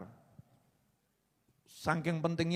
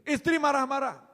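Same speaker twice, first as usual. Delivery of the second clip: mock exclamation; 11 semitones higher, 5 dB louder than usual. Repeated comic topic call.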